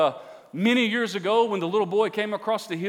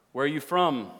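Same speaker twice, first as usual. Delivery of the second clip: mildly firm question within a low reading; a touch of stern interrogation; understated demand; 5 semitones lower than usual. A narrator's reading. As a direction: read it as a restrained, harsh demand. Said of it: "he demanded".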